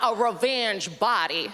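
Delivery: a touch of camp, drawn out; sassy friend. Acted. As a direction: repeat it slowly as the sassy friend. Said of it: "That's the voice".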